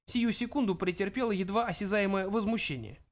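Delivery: put-on high, elderly, severe questioning; old man's indignant high voice; stern old ghost. A narrator's reading. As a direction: confront him sternly as an ancient ancestor. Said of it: "вперев в Зафода суровый взгляд".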